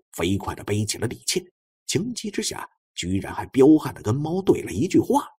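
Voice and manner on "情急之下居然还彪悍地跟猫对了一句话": plain reading voice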